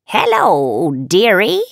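put-on sly old witch greeting; drawn-out wicked witch dearie.

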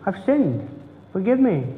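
lightly voiced prayer of confession; humble confession. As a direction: confess it simply to the Lord. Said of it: "which is saying".

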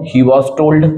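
very slow, word by word; slow dictation. Shown as a demonstration. Teacher dictating an example sentence to students, very slow. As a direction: spell the sentence out slowly for the class.

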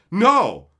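loud whiny mock; mock whiny customer. Streamer mocking entitled fans, loud whiny mock. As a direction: snap it like a spoiled kid. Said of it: "Well, wait till bread day".

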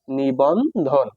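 নিবন্ধন stretched out, falling at the end; slow pronunciation demo. Shown as a demonstration. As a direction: draw out নিবন্ধন slowly in separated syllables. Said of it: "আমি এই বারবার উচ্চারণ করি".

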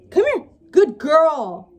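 high coaxing puppy talk; dog voice. Real, not acted. Owner calling her puppy in high puppy talk. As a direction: call the puppy up sweetly. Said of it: "my dog voice is just hilarious".

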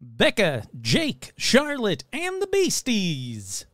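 slow, drawn-out and the Beasties; names read with a flourish; dramatic slow ending. Shown as a demonstration. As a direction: stretch the last words for show. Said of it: "second take of names".

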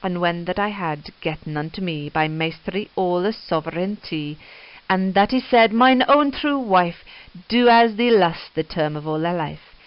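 rhythmic iambic reading of Chaucer in Middle English; Middle English verse reading. Shown as a demonstration. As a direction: let the old verse roll in iambic pentameter. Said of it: "trying to read it in iambic pentameter".

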